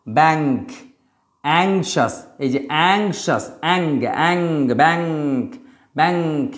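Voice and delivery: ব্যাংক and অ্যাংশাস with a nasal ng; teacher drilling ng words; ng sound. Shown as a demonstration. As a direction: lean on the ng in ব্যাংক. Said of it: "ইঙয় গয়ের উচ্চারণ করা হবে".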